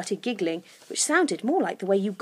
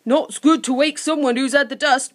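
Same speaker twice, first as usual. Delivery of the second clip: higher, louder creature voice; helpful creature Sniff; 5 semitones higher, 5 dB louder than usual. A narrator's reading. Sniff warning Lucy about the dust, helpfully. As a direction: explain helpfully as a little creature. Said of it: "said Sniff helpfully".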